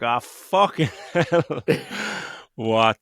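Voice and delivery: laughing disbelief. Retold or imitated. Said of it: "you're like".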